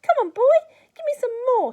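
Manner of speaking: high, loud screeching crone; yelling. A narrator's reading. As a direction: bark the order at the boy. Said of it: "she yelled".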